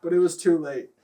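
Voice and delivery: mock-dramatic reading of a silly story; story narration. Reading raunchy fan fiction aloud to laughing friends, mock-dramatic narration. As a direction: read it out like a serious story, half laughing.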